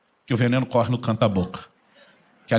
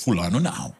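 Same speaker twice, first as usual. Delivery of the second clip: stubborn refusal; 7 semitones lower than usual. Retold or imitated. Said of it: "Aí você diz".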